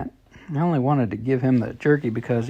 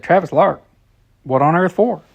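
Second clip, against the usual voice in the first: surprised; 5 semitones higher, 7 dB louder than usual. Acted. Surprised mother asks.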